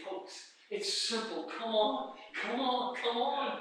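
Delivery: slow, softened appeal; gentle coaxing. Acted. Walker turns back to urge others on, gentle coaxing. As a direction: coax them along quietly. Coaxing those behind to follow.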